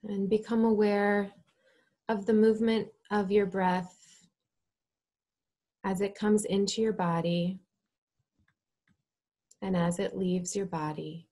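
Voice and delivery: measured, calm instruction with space to breathe; guided meditation. Real, not acted. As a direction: lead them gently into stillness, phrase by phrase.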